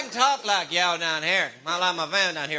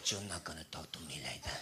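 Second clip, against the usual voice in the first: mock indignation; 12 semitones lower, 16 dB quieter than usual. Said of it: "I said".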